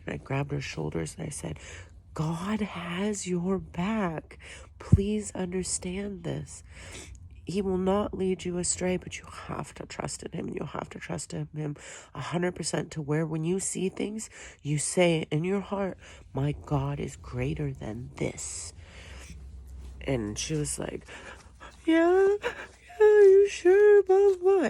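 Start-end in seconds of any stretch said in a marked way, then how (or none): 2.1-18.7 earnest reassurance. Retold or imitated. Comforting girl with faith. 21.9-24.7 mock girl voice, much higher and louder; high squeaky girl. Imitating the scared girl.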